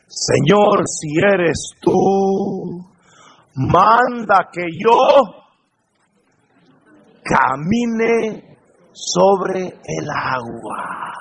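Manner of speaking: slow, drawn-out plea with long pauses; solemn quoted prayer. Acted. Preacher quoting Peter to the congregation, slow solemn prayer. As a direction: stretch each phrase out reverently.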